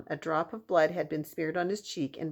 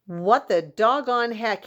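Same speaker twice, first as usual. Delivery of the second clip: slow, loud amazed exclamation; astonished cowboy; 5 semitones higher, 7 dB louder than usual. Acted. Cowboy staring up at a giant hand, astonished. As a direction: gape and drag it out in disbelief.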